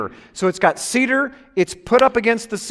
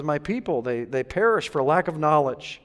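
gentle God voice; 5 semitones lower, 6 dB quieter than usual. Retold or imitated. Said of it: "God just laughs and says".

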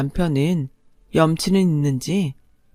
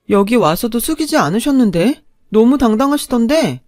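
higher, louder mocking tone; sarcastic jab; 4 semitones higher, 4 dB louder than usual. Wife mocking her ex-husband's excuse, sarcastic. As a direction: sneer at his excuse.

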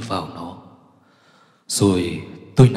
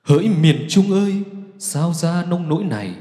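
tearful lament; 6 semitones higher than usual. Acted. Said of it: "Tôi bật khóc".

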